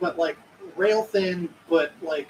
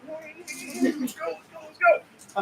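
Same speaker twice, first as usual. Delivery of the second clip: urgent urging; 9 semitones higher than usual. Acted. Jean Pierre urging.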